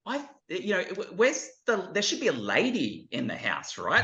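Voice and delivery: put-on high, searching child's voice; a kid peering round the house for a lady; curious boy. Boy asking his grown-up self where his wife is.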